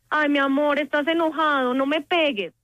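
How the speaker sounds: gently plead, without real authority; soft pleading parent. Acted. Parent sweetly begging a hitting child not to hit, mild pleading. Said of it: "y en este tono".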